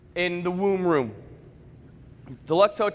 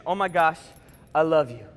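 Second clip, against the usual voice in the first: tender mom; 5 semitones lower than usual. Retold or imitated. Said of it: "looks down at you and immediately, affection".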